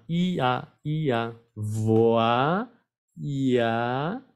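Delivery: "ya" as "ee-a", "Voix" as "vwa", each isolated; syllable demo. Shown as a demonstration. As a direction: sound out "Voix, ya" with pauses between syllables. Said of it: "La I con la A".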